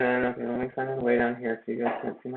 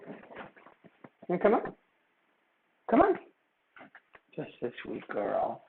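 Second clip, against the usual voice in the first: pet talk. Real, not acted. Coaxing pet, "just a sweet girl.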